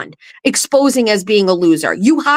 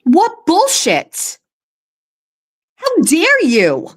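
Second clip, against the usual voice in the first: outraged; 5 semitones higher, slower than usual. Real, not acted. Outraged reaction reading email.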